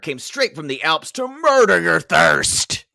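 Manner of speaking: ad read. Shown as a demonstration. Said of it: "Is that what it says?".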